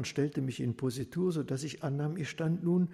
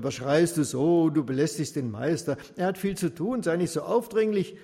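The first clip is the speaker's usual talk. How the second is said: louder, annoyed rebuke; irritated scolding; 5 dB louder than usual. Acted. Crowd telling the loud beggar off, irritated scolding. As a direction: hush him sharply, fed up.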